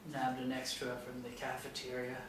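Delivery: a hint of a deep gruff biker; lightly voiced rough janitor. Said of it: "a deep, gruff voice".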